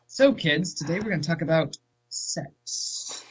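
lightly voiced teacher addressing class. Shown as a demonstration. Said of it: "Yeah, see?".

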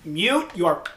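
loud, very slow exasperated yell; mock yell. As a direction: drag out the yell. Mocking callers who forget mute.

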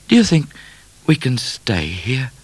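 high start, slowing at the end; hopeful question. A narrator's reading. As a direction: ask hopefully, stretching the last words. Midnight asks Cat hopefully.

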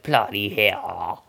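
slow mock young Brit exclamation; lightly put-on British voice, drawn out; young UK person. Host imagines a young UK viewer swearing, slow mock British. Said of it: "if we have a young U K person who's like".

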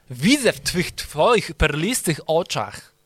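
slow, syrupy, hammed-up flattery; mock flowery compliment. Shown as a demonstration. Host flattering cohost, slow mock-romantic compliment. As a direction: drag it out like a cheesy suitor.

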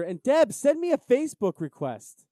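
high, loud teasing call; playful calling out. Pretend. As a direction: call out to his wife to wind him up. Teasing, calling out to co-host's wife.

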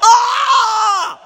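very high, drawn-out wail; pissed-off. Real, not acted. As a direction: howl slowly in utter frustration. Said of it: "I'm so pissed".

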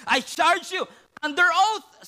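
loud, high and slow command; a high priest putting Jesus under oath; stern high priest. Acted. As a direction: lay down the oath slowly.

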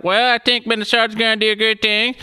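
put-on high, loud Minnesotan accent; sing-song Minnesota accent voice. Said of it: "my Minnesotan accent".

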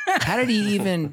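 how is this even possible; incredulous. Real, not acted. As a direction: pitch jumps up in disbelief. Incredulous rant about the Bronco.

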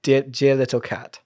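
lightly put-on British "dear little cat"; British accent. Shown as a demonstration. Co-host shows how jellicle comes about, British accent. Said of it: "it's in a British accent".

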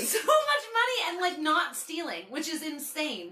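high, slow, laughing. Real, not acted. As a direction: crack up remembering. Laughing recall.

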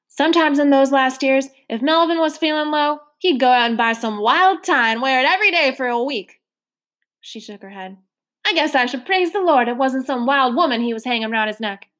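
lightly voiced motherly woman, rising coaxingly; a hint of a hearty foster mother; coaxing landlady. Trotter coaxing Mister Randolph to have pie, lightly coaxing.

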